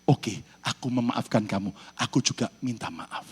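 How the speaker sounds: soft, smiling forgiveness; gentle forgiving. Acted. Husband forgiving his wife after twenty years, softly and smiling. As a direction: forgive her tenderly, quietly. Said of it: "Suaminya pun senyum".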